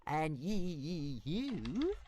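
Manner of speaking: a high, quiet stammer; calmly. Acted. Toothless calmly stammering back at Fireworm. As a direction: stay unruffled and stutter. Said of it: "said Toothless calmly".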